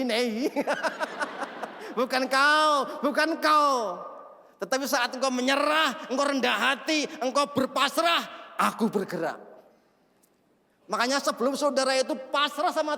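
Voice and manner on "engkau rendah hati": ordinary delivery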